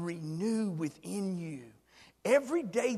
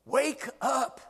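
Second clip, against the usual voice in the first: scripture call; 4 semitones higher, 5 dB louder, much slower than usual. Acted. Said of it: "It says".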